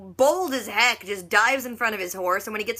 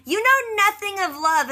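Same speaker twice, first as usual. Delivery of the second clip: much higher, slower, louder hammed-up accusation; mock melodrama; 10 semitones higher, 4 dB louder than usual. Claire accusing Murtaugh by the fire, hammed-up melodrama. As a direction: ham it up like a soap heroine.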